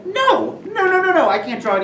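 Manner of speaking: laughing panicked refusal. Retold or imitated. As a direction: laugh as you beg off in mock panic. Panicked refusal to draw the map.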